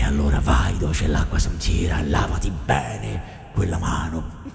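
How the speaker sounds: low whispered dubbing voice; hushed deep film-dubber. Acted. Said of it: "Che voce ha?".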